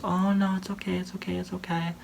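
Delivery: high, softening put-on comfort; mock reassuring. Sarah comforting Rebecca over the lost cat, mock reassuring. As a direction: imitate soothing someone in a high voice. Acting out friend comforting her.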